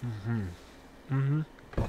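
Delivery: sticky mouthful; humming through a sticky bite; mouth full of peanut butter. Real, not acted. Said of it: "Stuck to the roof of my mouth".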